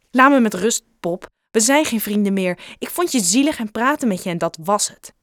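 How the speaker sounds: loud, cutting dismissal; angry rejection. Acted. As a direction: push him away hard. Joe rejecting Bob angrily.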